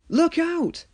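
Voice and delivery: high loud warning shout. Acted. Driver warning Thomas of the cave-in, shouting. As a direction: yell a warning. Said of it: "shouted Thomas's driver".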